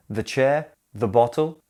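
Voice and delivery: "the" said "thuh" before "chair" and "bottle"; weak schwa in each "the", stress on "chair" and "bottle"; "thuh" before consonant. Shown as a demonstration. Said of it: "Match the correct sound to the first letter".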